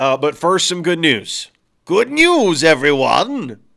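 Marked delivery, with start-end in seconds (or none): 1.9-3.5 put-on character voice, pitch swinging wide and swooping. Introducing some good news in a Professor Farnsworth voice. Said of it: "That was my Professor Farnsworth".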